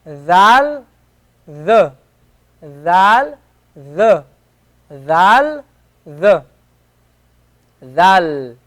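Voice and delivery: "Dal" and "the" said in turn, the Arabic letter dal; teacher drilling the Arabic letter dal. Shown as a demonstration. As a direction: alternate "Dal" with "the" to show one sound. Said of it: "This gives you the the sound".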